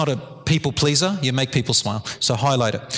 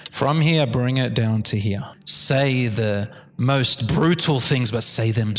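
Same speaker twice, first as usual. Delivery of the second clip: low, calm tone; 6 semitones lower, slower than usual. Shown as a demonstration. Teacher showing a colleague how to calm students, low and unhurried. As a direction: drop it low and slow. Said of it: "at a low tone".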